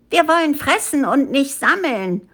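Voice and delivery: high-pitched, mildly shouted protest; monkeys' protest cry. A narrator's reading. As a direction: cry out as a rebellious monkey crowd. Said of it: "schrien die Affen".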